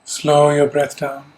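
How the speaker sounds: calm, measured meditation guidance; unhurried instructions with long pauses to let them settle; guided meditation. Real, not acted. Teacher settling a group into yoga nidra, calm guided meditation. Leads a seated breathing meditation.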